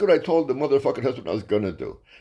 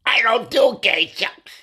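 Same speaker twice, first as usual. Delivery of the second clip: flat refusal; 8 semitones higher, 3 dB louder, slower than usual. Retold or imitated. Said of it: "And I said".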